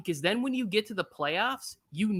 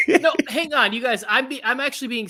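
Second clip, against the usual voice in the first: laughing; 7 semitones higher, 8 dB louder than usual. Real, not acted. Laughing while trying to talk.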